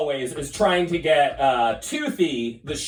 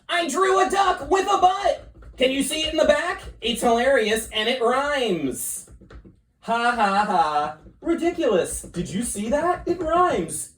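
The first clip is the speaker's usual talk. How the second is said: gleeful shout; 7 semitones higher than usual. Acted. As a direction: shout it out with glee. Squizzard shows off his joke.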